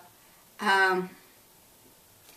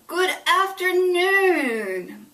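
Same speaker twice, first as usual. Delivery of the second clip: high, loud and slow, stretched out; booming loud voice; 10 semitones higher, 7 dB louder, much slower than usual. A narrator's reading. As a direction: boom the greeting across the house. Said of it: "Emily said in her Emily voice".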